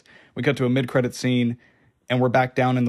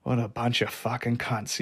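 softer imitated Australian accent; Butcher's Australian accent; 6 dB quieter than usual. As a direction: say it in a light Aussie accent. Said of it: "his Australian, New Zealand accent".

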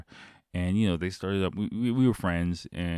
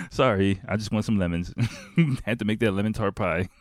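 louder amused lines between laughs; laughing at his own cluelessness; 3 semitones higher, 5 dB louder than usual. Real, not acted. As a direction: chuckle through the excuse.

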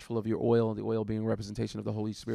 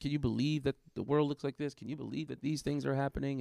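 surprised; 4 semitones higher than usual. Retold or imitated. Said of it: "like, surprised".

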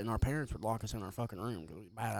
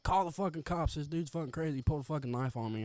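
raised-pitch retelling of a panicked call; retold yelling; 4 semitones higher than usual. Teen yelling upstairs about the knife, mild retold yell. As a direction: mildly re-enact yelling for help. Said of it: "I remember yelling up there".

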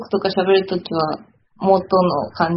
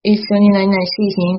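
casual Kyoto dialect, friends' tone. Shown as a demonstration. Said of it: "友達とかと喋るときは".

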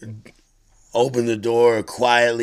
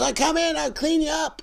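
very high-pitched imitated woman's voice; old lady. Dog's owner offering to clean up her victim, high mock old-lady voice. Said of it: "She goes".

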